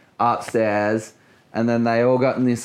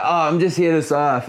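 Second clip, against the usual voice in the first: choking laugh; 5 semitones higher than usual. Retold or imitated. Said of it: "fully choking".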